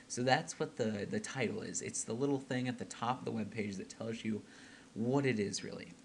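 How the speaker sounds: weary and a bit breathless; tired, out of breath. Real, not acted. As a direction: talk tired and short of breath. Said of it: "if I sound a little weird or out of breath".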